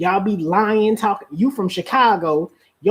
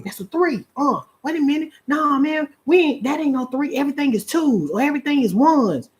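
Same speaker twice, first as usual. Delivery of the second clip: arguing ballplayers; 6 semitones higher than usual. Acted. Acted argument over rules.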